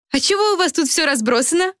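put-on chirpy young girl asking; Helli's voice. A narrator's reading.

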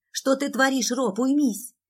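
high, loud protest; alarmed shout. Acted. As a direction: yell at your brother to stop. Sister tries to stop fight.

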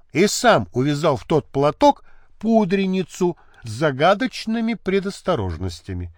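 ordinary delivery

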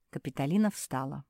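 ordinary delivery

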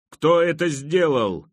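loud, high, drawn-out demand; furious yell. A narrator's reading. Young king yells at the crowd after being pelted, loud. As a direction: yell it slowly and loudly. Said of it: "заорал Джоффри".

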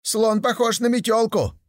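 гораздо выше и громче, резко; выкрикни возражение; крик. Acted. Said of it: "закричал опять первый". (первый слепой спорит, крича)

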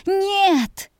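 high, strained last scream; final desperate scream. A narrator's reading. Girl's last scream at the flaming vision. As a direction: tear it out at the top of the voice. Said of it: "Мой крик оглушал".

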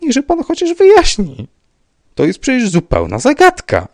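very high, loud, desperate begging; despairing plea. A narrator's reading. Rybka begging the commissioner to explain, despairing plea. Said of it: "załamał ręce pan Rybka".

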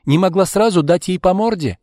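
high, loud scolding question; acted outraged rebuke; indignant. A narrator's reading. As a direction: berate your friend for being meek. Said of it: "возмутилась Марина".

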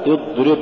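اضرب with a brief dad; moderately held dad in اضرب; balanced dad. Shown as a demonstration. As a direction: say اضرب without dragging the heavy d. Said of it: "الصواب".

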